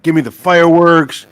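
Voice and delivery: a hint of a cartoon character's demand; Homer. Retelling a Simpsons shopping scene, light impression. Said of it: "what did Homer buy?".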